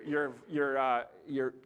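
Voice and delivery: usual speaking voice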